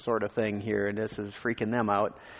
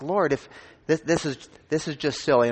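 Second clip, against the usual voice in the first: higher and louder, an exasperated plea; crying out to God; 5 semitones higher, 4 dB louder than usual. Retold or imitated. A man crying out to the Lord about where to go, higher and louder. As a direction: throw the frustration up to heaven. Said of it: "as I cried out to the Lord".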